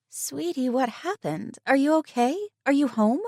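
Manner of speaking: high, quick worried questions; worried friend. Acted. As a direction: fuss over her friend. Tegan firing questions.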